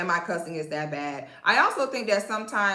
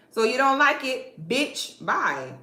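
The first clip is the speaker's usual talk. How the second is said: sassy brush-off; 3 semitones higher, slower than usual. Real, not acted. Dismissing critics, catchphrase.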